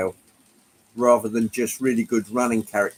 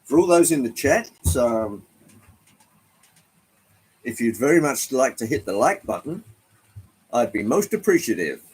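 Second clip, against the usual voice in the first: mock American accent. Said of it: "best American accent that I can muster".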